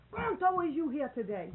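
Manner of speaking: high, loud exasperated roll call; the teacher loses his temper calling the absent student; upset teacher's shout. Retold or imitated. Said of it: "Just like that".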